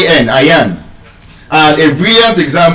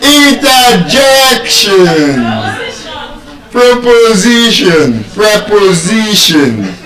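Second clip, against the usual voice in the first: slow "Interjection. Proposition. Preposition." pitched up, holding JEC and SI; penultimate stress; 5 semitones higher, slower than usual. Shown as a demonstration. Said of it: "the stress is on the second to the last syllable".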